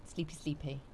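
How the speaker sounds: soft drowsy murmur; sleepy. Real, not acted. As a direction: mumble it half asleep. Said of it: "I'm in my comfies".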